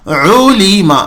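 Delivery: عولیما said clearly with throaty ain; model word ulima. Shown as a demonstration. Teacher repeats the word for practice. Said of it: "عین کے اوپر آپ کو توجہ".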